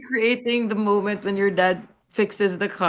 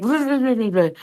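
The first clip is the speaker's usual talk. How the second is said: quick gibberish imitation of instructions, slightly raised; mimicked foreign instructions; 2 semitones higher than usual. Relaying instructions in a language she doesn't know, mock gibberish. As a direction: lightly mimic orders you can't follow. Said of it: "instructions for it in Thai".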